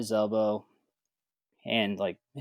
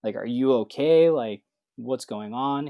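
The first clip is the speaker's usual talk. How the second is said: freaking out; 3 semitones higher, 5 dB louder, slower than usual. Retold or imitated. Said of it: "I'm freaking out".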